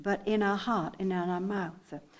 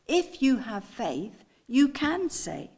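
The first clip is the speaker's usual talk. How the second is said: slow phrase, raised "can"; stress on can; slower than usual. Shown as a demonstration. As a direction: lift "can" with slow assurance. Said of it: "I want you to get the inflection in my voice".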